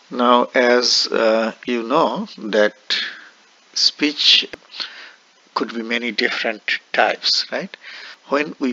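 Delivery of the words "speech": whisper. Shown as a demonstration. Lecturer whispers word.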